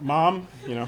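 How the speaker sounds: a laughing, teasing protest to mom; laughing at mom's six-pack boast; laughing through it. Retold or imitated. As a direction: chuckle the words out, half embarrassed. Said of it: "I was like".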